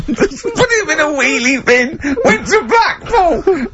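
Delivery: mock-dramatic high voice; high, silly send-up through laughter; high comic mockery. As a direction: squeal it out high, drawn out at the end. Joke mocking of story songs, laughing.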